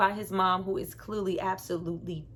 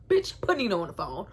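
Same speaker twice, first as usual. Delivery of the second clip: gangster line. Retold or imitated. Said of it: "from New Jack City".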